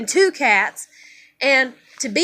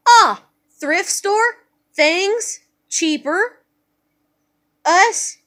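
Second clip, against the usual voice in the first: put-on child self reasoning aloud; 4 semitones higher, 3 dB louder, slower than usual. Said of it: "And I'm like".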